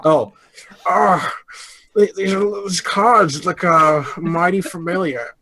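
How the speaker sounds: lightly voiced creaky old man; slow, wavering old man. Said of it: "Is that your old man voice".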